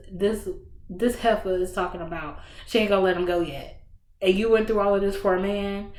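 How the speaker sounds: indignant fan ranting at the book; retold outrage. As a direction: fire it off like you can't believe it. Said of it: "my blood was boiling".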